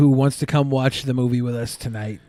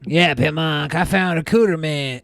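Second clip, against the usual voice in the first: lightly voiced dim co-host impression; a hint of someone else's voice; Shabisky; slower than usual. Co-host mimics the guest reporting his word, light impression. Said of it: "That's my Shabisky's impression".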